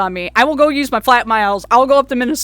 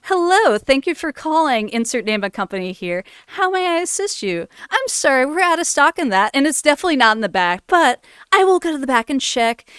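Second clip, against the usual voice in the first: customer service voice; 3 semitones higher than usual. Retold or imitated. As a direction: chirp it like a call-centre agent reading the script. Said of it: "I could be my customer service voice".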